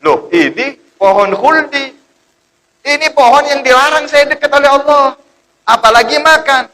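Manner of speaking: Adam shocked at the forbidden tree, protesting high; shocked refusal. Acted. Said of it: "Kata Nabi Adam".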